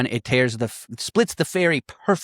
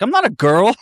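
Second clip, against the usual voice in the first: mock squeaky protest; 9 semitones higher, 5 dB louder than usual. Imitating Peter's cracking voice.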